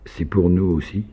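petite question timide, plus aiguë. A narrator's reading. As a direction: une fillette demande timidement. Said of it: "Anyuta demanda timidement". (question timide d'enfant, aiguë)

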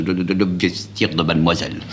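a lightly voiced stammering old servant; quavering with emotion. A narrator's reading. Maître d'hôtel handing back the cape, stammering with emotion. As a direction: stumble over the first words, moved. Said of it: "Il chevrotte d'émotion".

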